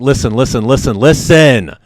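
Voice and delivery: urgent, mounting plea; begging. Retold or imitated. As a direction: beg to be heard, slowing on the final "listen". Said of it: "I'm just begging this lady".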